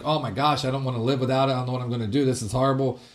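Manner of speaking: mild, muted despair; mock depression. Believer imitating someone overwhelmed by trouble, mock depressed. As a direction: imitate someone sinking into gloom. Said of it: "not like a depression".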